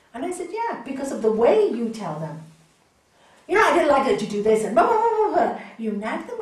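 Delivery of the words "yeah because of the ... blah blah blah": loud, fast nagging at a spouse; mock a nagging, angry partner; nagging complaint. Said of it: "or you scream at them".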